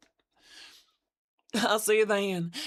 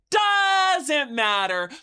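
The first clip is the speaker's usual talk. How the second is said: loud drawn-out shout; shouted, slow; 4 semitones higher, 5 dB louder, much slower than usual. Acted. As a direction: bellow it out slowly. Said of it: "second louder take".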